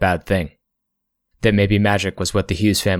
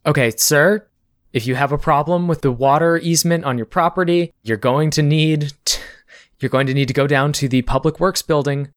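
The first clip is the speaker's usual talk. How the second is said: receptionist voice; 4 semitones higher than usual. Acted. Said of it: "they're like".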